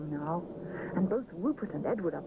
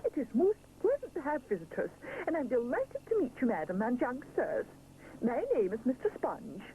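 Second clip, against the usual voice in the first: polite chef voice; 4 semitones higher than usual. Acted. Chef character speaking.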